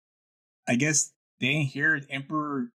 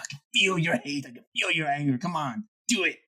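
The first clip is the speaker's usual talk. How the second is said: tempting devilish whisper; 2 semitones higher than usual. Retold or imitated. Palpatine taunt quoted.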